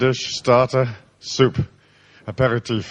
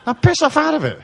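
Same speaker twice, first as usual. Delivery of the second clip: mock triumph; laughing taunt; 7 semitones higher than usual. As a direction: crow over him through laughter. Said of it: "I said".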